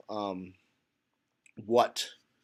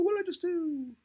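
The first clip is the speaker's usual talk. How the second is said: surprised; faster than usual. Real, not acted. Screen suddenly changes unexpectedly.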